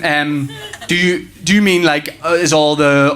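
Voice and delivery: stammering, stalling for an answer; flustered dad. Acted. Dad stumped by his son's sea question, comically flustered. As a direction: play stumped, with ums and nonsense fillers.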